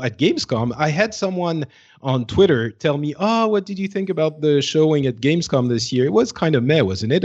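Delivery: normal talking voice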